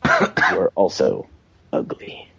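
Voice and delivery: drawn out, last word dropped to near silence; slow, deliberate repeat. Acted. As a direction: say it slowly, fading on ugly. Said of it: "As I said".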